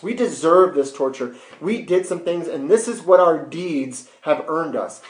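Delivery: acted scolding with insistent stresses; rebuking. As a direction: reason hard with a fellow culprit. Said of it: "actually rebukes the other criminal".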